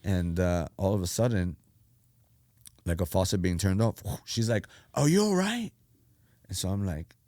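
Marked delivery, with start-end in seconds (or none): 4.9-5.7 high-pitched worried question; mock female voice, checking on him; imitated concerned girl. Acting out the worried girl driver.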